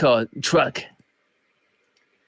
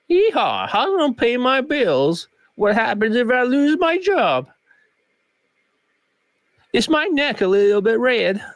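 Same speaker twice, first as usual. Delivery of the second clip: mock Southern redneck; 7 semitones higher than usual. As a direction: play a worried Alabama good ol' boy. Mock Southern man from Alabama.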